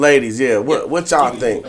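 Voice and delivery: talking through a mouthful of food; mouth full. Real, not acted. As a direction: speak around a bite of food. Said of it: "'cause I got a mouthful of".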